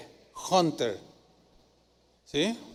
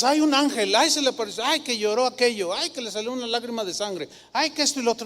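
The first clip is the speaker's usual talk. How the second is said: high, exaggerated mocking of credulous talk; mock breathless wonder; mocking gossip; 4 semitones higher, faster than usual. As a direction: sigh out each "ay" like a gullible busybody. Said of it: "no digas".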